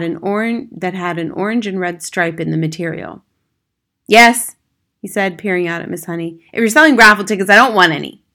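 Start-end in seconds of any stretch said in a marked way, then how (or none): 4.1-4.5 loud, higher-pitched curt answer; gruff householder. Acted. Ratty-looking man answering a stranger at the door, curt. 6.5-8.2 loud, dismissive father voice; brusque householder. Acted. Man at the door to a supposed ticket seller, brusque.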